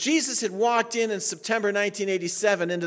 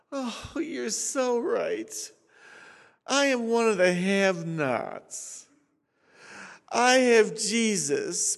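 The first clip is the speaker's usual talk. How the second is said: mock humility. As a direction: play the poor have-not, tongue in cheek. Mock humble reply to boaster.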